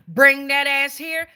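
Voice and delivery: loud, slow, commanding call; forceful summons. Shown as a demonstration. Tarot reader summoning spirits to the reading, loud and slow. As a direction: drag each word out like a summons. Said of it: "But when we say".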